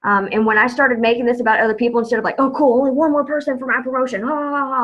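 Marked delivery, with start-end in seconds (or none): 2.4-4.7 higher, hammed-up gloating with fake "ha, ha, ha"; mock selfish glee. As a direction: play the greedy old self, laughing it off. Mock selfish sales thought.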